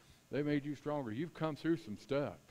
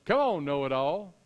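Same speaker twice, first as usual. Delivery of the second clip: lightly voiced taunting challenge, louder; a touch of divine needling; Lord's voice; 6 dB louder than usual. God needling Job the know-it-all, mildly mocking and loud. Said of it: "in the Lord's voice here".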